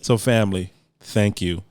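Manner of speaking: smooth radio host delivery. Acted. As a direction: read it like a radio announcer. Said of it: "you using the whole radio voice today?".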